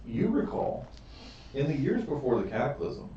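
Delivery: measured storyteller delivery with pauses between phrases; game master's lore narration. Acted. Game master telling players the fall of Lord Soth, storytelling narration. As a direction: recount an old legend deliberately.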